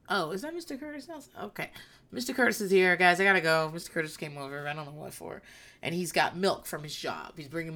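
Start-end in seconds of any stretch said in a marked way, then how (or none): 0.1-5.4 playing it cool over Mister Curtis; mock coy ex-wife. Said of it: "I'd just be like".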